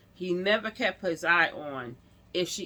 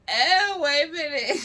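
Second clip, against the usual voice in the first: high, loud startled cry; loud, high yelp of surprise; startled outburst; 9 semitones higher, 7 dB louder than usual. Retold or imitated. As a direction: jump up in pitch like it just hit you. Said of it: "I was like".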